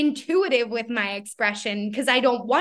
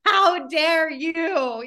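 mock indignant sibling; 5 semitones higher, much slower than usual.

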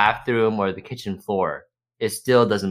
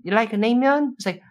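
high halting broken English, words searched for; 6 semitones higher than usual. Retold or imitated. Song Joong-ki in a date skit talking in high broken English. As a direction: stumble through English in a high voice. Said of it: "why is Song Joong-ki talking like that".

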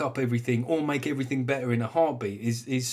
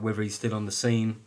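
ordinary delivery

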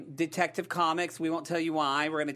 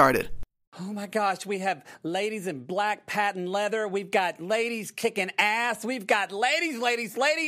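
higher, louder, building to a shout of excitement; hyped show opener; 7 semitones higher, 5 dB louder than usual. Acted. Host teasing Birds of Prey episode to listeners, hyped. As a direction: kick off the show with mounting hype.

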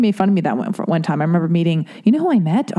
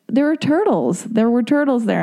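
higher, acted-out eager repeat; retold insistence; 5 semitones higher than usual. Repeating it for the puzzled musician, eagerly insistent. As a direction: insist brightly, pitched up. Repeating herself after excuse me.

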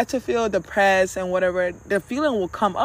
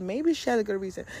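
softer, quick aside; tiny inner voice; 7 dB quieter, faster than usual. Acted. Little voice answering the anger, small and soft. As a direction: slip it in softly and quickly. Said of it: "it was the tiniest voice in my head".

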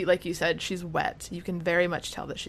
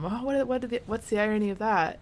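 higher, stumbling puzzled question; imitated confusion; 4 semitones higher than usual. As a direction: play mildly baffled. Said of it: "like, confused".

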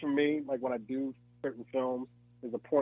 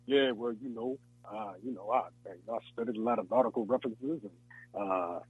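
mock know-it-all; 5 semitones lower than usual. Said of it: "if I had to be Beach's character".

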